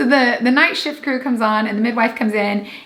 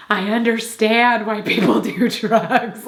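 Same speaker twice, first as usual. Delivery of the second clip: slow, floaty, laughing realization; mock drugged bliss; slower than usual. Woman on morphine to her laughing partner, mock blissed-out. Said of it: "felt like I was in a warm bath".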